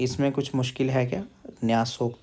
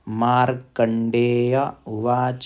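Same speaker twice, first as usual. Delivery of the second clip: slow, chanted Sanskrit reading; slow recitation; much slower than usual. Shown as a demonstration. Teacher intones the text for learners, slowly. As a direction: intone each word slowly.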